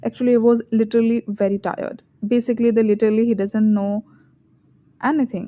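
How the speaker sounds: spoken slowly as a bad example; slow example sentence. Shown as a demonstration. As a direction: read it slowly, stuffed with fillers. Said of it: "correct version देखते हैं". (धीमे से बोला गया गलत उदाहरण)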